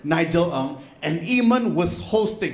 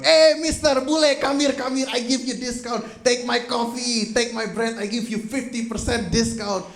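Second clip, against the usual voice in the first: higher, eager shop owner calling a customer over; eager barista calling out; 5 semitones higher than usual. Retold or imitated. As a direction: lure the foreigner in with a friendly shout.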